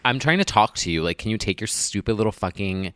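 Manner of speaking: mock-exasperated telling-off; playfully irritated rant. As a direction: act out scolding someone who isn't listening. Acted complaint to AirPod wearers.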